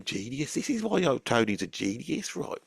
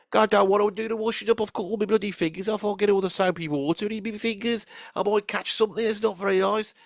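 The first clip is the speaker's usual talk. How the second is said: whiny protest; 4 semitones higher than usual. Retold or imitated. Tony whining back to mum.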